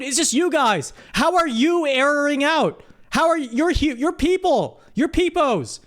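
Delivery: incredulous, pitched high complaint; exasperated. Real, not acted. Host frustrated by chat typing error.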